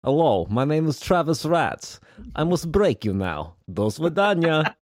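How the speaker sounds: lightly put-on Russian accent for a joke intro; poor Russian accent. Podcast host greets his co-host in a poor Russian accent. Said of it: "Travis did a very poor Russian accent".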